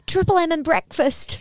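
put-on high, slow little girl voice; cute little girl voice. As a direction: imitate a small child saying it sweetly. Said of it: "the way she said it was so cute".

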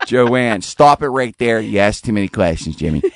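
lightly put-on Pittsburgh assistant voice; telling someone off, Pittsburgh style; Pittsburgh accent. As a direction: scold the user in a Pittsburgh accent. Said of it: "I have mine in a Pittsburgh".

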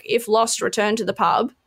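T-shirt slogan shouted through laughter; laughing shout. Retold or imitated. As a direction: blurt it out laughing. Quoting a novelty T-shirt.

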